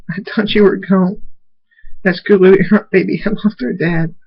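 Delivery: high-pitched distressed character voice; upset, tearful outburst. A narrator's reading. Rimmer Dash to returned Thunderstorm, tearful. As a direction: raise the pitch as if crying, mildly acted. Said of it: "starts crying. She says".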